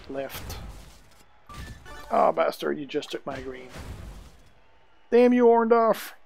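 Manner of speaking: usual speaking voice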